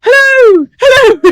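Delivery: loud, high shouted hello; aggressive hello. Retold or imitated. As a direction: bark a friendly word aggressively. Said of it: "saying it in a really aggressive way".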